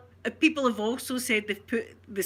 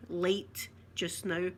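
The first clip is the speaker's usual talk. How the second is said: slow translation; 3 semitones lower, 5 dB quieter, much slower than usual. Shown as a demonstration. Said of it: "explaining the phrase".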